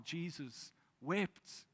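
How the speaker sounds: very slow and soft, almost a breath; Jesus wept, whispered slowly; hushed slow reading. Acted. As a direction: drop to a hush and stretch it. Verse repeated for emphasis.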